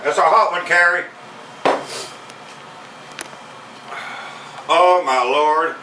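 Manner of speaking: talking through a burning mouth; mouth full of hot food. Real, not acted. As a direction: speak with a mouth on fire. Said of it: "My mouth is on fire right now".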